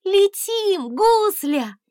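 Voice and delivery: high, loud ringing command; ringing order. A narrator's reading. Princess ringingly ordering the dragon to fly. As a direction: order him into the air. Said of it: "звонко приказала она".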